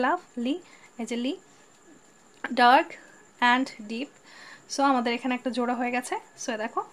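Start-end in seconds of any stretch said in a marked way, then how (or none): 0.1-0.6 "লাভলি" divided into লাভ and লি; teacher's two-part "লাভলি"; split in two. Shown as a demonstration. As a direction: say "লাভলি" as two separate syllables. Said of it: "লাভলি দুই ভাগে ভাগ করা যায়".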